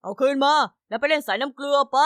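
loud, harsh barking of orders; angry order. Acted. Greedy manager on the video orders the money back, loud angry bark. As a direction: bark it out like a greedy boss who has lost his temper.

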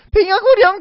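high, loud thrilled exclaim; excited cry. Real, not acted. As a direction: cry out the dragon's name. Excited at dragon.

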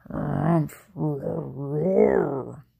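low, loud growling roars; bear growl. Acted. Old Bear growls through the blessing, low roars. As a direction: grumble and roar like a bear. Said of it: "Old Bear muttered and growled".

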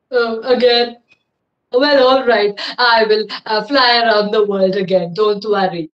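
weary dragon. Acted. Dragon agrees wearily.

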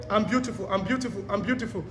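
gentle whispered-style affirmation in your room; soft self-affirmation. Shown as a demonstration. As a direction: say it softly to yourself. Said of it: "Or just say".

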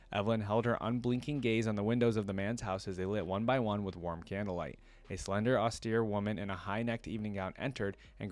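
measured storybook reading; story narration. A narrator's reading. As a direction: narrate a dark tale with care. Reads the story aloud.

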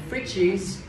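FRIDGES ending in a voiced iz; final z sound. Shown as a demonstration. Teacher confirms a student's plural, FRIDGES with final z. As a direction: say FRIDGES with a clear z at the end. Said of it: "Phải có âm giờ phía cuối nha".

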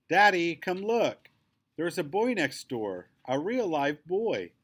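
put-on high, slow and eager girl calling her dad; a little girl thrilled to show Daddy something; excited little girl. A narrator's reading. Narrator voicing excited Quinny.

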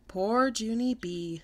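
slow, drawn-out teasing sympathy. Acted. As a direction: tease her gently, stretching each word. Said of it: "very teasing".

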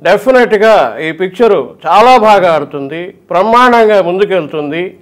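lightly voiced slow film hero; a hint of the Krishna voice, unhurried; slow, easy star voice; imitating Krishna. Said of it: "ఇట్లా ఉంటది ఆయన".

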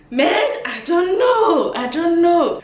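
very high, drawn-out lament; exasperated wail. Real, not acted. Vlogger despairing at her embarrassing moments, high exasperated whine.

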